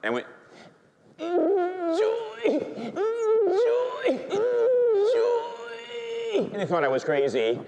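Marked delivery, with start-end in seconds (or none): 1.2-6.5 very high strained squeal, drawn out; struggling to speak. Retold or imitated. Priest tries to calm his carers, unable to talk. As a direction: imitate forcing one word out through overwhelming ecstasy. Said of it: "but I can't talk".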